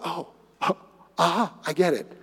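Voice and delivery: sudden realization. Acted. Peter at Cornelius' house finally understanding, soft and moved. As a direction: let the penny drop, almost tearful. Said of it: "and all of a sudden".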